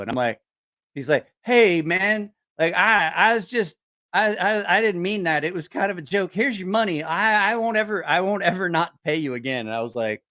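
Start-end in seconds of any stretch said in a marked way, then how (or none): 1.4-9.7 stammering, higher mock apology; nervous apology. Beaten debtor paying back the money, mock nervous pleading. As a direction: imitate someone backpedaling in a hurry.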